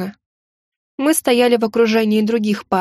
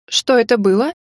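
surprised. A narrator's reading. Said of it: "удивлённо спросила я".

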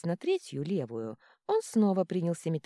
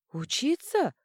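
much higher, louder dragon squeak; dazed monster question; 10 semitones higher, 5 dB louder, slower than usual. A narrator's reading. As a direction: squeak it in confusion. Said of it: "уточнил Горыныч". (высокий растерянный вопрос змея)

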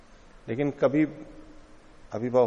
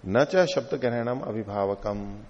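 slow sutra recitation; slower than usual. Shown as a demonstration. Reciting Sanskrit sutra text.

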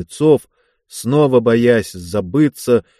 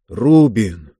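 drowsy, tongue barely moving; 2 semitones lower than usual. Acted. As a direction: mumble it as if half asleep. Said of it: "еле ворочая языком".

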